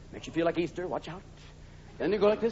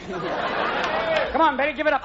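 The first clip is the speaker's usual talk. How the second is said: put-on drunk voice; 6 semitones higher, much slower than usual. Drunk groping, then shriek.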